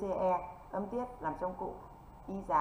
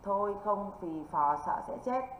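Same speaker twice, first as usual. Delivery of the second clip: slow mnemonic recital; slower than usual. Shown as a demonstration. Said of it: "cô Duyên cho âm về là gì đây".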